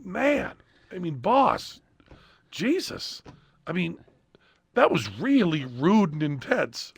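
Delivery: soft, hesitant reproach; hushed rebuke. Retold or imitated. Writer gently scolding the boss afterwards, hushed. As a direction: tell the boss off quietly. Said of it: "writer scolding quietly".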